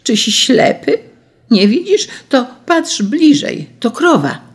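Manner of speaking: high, emphatic exasperated outburst; outraged peasant driving the point home; indignant shout. A narrator's reading. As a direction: insist heatedly, voice pitched well up. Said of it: "krzyknął wreszcie".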